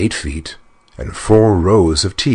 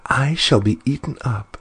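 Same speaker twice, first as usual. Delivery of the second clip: frightened; 8 semitones higher than usual. Acted. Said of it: "she began to cry".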